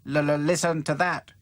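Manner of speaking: stammering, crackling robot doll. Acted. Hi-Fi stutters excitedly to the dolls. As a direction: stutter like a faulty radio. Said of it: "crackled Hi-Fi".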